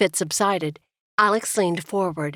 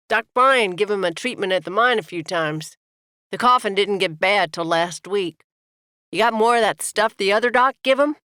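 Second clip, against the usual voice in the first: pushy working man standing up for his brother; rough miner brother; 2 semitones higher than usual. Acted. Younger brother Tad speaks up.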